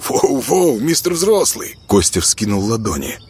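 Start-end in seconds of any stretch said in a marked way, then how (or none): 0.1-1.8 high, mock-placating exclamation; teasing backing-off. Kostya throwing up his palms to his friend, teasing. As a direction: back off with a playful jab.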